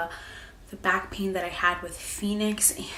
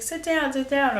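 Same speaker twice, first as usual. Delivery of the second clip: higher, louder mock urging; a light imitation of people fussing, insistent; urging to sit; 7 semitones higher, 4 dB louder than usual. Everyone nagging the pregnant mom to sit, imitated pushy urging. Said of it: "everybody's like".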